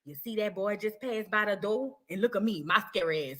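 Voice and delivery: hushed, low confidential voice; retold whisper. Student points out a boy passing the door, retold whisper. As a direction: drop right down as if sharing a secret. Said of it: "So then she whispered".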